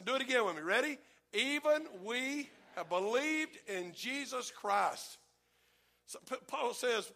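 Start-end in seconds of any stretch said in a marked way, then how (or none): 1.3-5.2 stretched out, careful words; slow, deliberate reading. Shown as a demonstration. Congregation rereading the verse, slowly and firmly. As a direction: read it slow and clear. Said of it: "Let's take a reading lesson".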